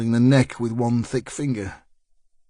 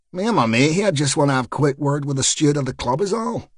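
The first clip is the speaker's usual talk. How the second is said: put-on Belfast accent; faster than usual. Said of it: "continuing his Belfast boy act".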